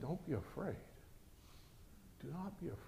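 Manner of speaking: near-whisper to settle him; hushed reassurance. Acted. Prophet hushing his panicking servant, very soft and gentle.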